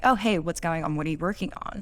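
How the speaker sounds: easy, open catch-up tone; just checking in, no judgment; friendly question. Shown as a demonstration. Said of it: "in the first instance where you're just like".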